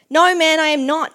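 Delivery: quick retort read out with force. A narrator's reading. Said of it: "Peter retorted".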